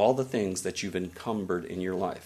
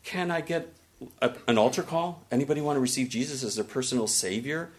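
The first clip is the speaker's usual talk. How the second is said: altar call; 3 semitones higher, faster than usual. Retold or imitated. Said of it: "if I was in church, I would say".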